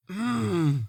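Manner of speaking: breathy sigh into a frustrated hum; exasperated sigh and grunt. Acted. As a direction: exhale hard, then grumble "mm". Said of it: "you hear the sound of frustration".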